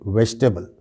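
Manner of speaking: "वेजिटेबल" as VESH-tebal; "वेजिटेबल" in three syllables, vej-te-bal; correct pronunciation. Shown as a demonstration. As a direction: say "वेजिटेबल" without the middle i. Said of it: "इस तरह से".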